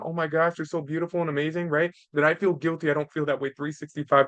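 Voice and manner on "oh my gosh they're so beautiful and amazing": lightly acted gushing, quick and easy; a touch of parental adoration, hurrying along; adoring parent. Parent who sees the kids as the center of the world, mildly adoring. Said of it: "them being the center of the world".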